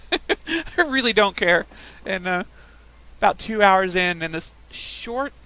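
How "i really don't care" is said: slow, louder don't-care drawl; careless. Real, not acted. Tells the story, slow and unbothered. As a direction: stretch it out, clearly done caring. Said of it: "I no longer give a shit".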